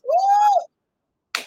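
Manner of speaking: loud high woo; preacher whooping in praise; joyful whoop. Real, not acted. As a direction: let out a loud celebratory cry. Preacher's exultant shout.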